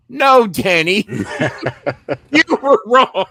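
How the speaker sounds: loud, high retort breaking into a laugh; high, emphatic mock outrage; retold indignant rebuttal. Retells refusing boss's shared blame.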